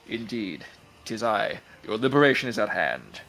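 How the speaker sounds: deep muffled sea monster. Acted. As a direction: speak low and regal. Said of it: "the Tide Worm himself".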